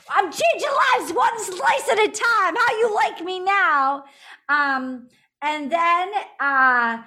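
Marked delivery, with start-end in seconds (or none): 0.1-4.0 mock swagger. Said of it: "he says".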